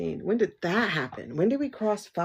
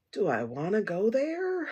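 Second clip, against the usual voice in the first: mock hesitant wondering. Torn over a stone for ancestors and mediumship, mock hesitant. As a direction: wonder it aloud, dragging the last word. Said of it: "And I'm like".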